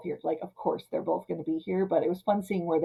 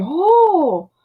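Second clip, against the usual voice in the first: higher, louder sarcastic brush-off; hammed-up sarcastic 'it's fine', high; mock hurt sarcasm; 10 semitones higher, 7 dB louder, slower than usual. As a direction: act wounded but pretend it's fine. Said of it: "And just like".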